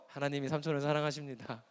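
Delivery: low, softened, unruffled blessing; serene pious reply. Acted. Nephew answering his baffled uncle, serene and pious. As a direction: keep calm, drop pitch and volume.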